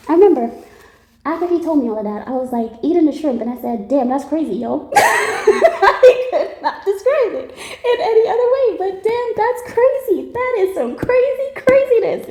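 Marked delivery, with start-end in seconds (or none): 3.9-4.9 laughing; amused damn that's crazy said through a laugh; chuckling reaction. Retold or imitated. Her reaction to the story. 4.9-12.3 high laughing squeal through the words; giggling hard, voice up high. Real, not acted. Laughing at her own story.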